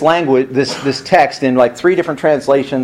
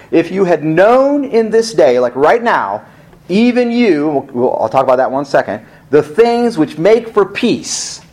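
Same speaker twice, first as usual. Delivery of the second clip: mournful lament; 3 semitones higher than usual. Acted. Repeating Jesus' lament, high, slow.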